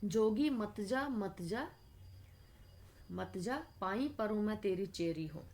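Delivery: measured poem reading, drawn out at the start; verse recitation. Acted. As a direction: recite it as a devotional verse, with pauses. Recites the verse before explaining.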